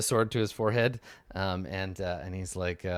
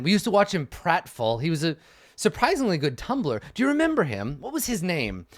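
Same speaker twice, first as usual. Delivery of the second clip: haughty noble swordsman. Acted. Noble recalling his boyhood fool to his sister, lordly then amused. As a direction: start measured, lift as the memory amuses.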